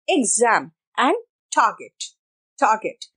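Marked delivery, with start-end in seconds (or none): 1.6-3.1 target with light t and no r; soft English T. Shown as a demonstration. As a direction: soften the t of target, drop the r. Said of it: "ट नहीं होता". (target में नरम ट, र नहीं)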